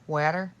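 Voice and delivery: Water with a flat a, "wahter"; asked to say it. Shown as a demonstration. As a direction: say Water like "wotta". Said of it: "How do you say water?".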